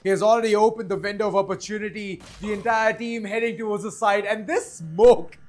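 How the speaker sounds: punchy live caster; energetic play-by-play. Real, not acted. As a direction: call the attack as it unfolds.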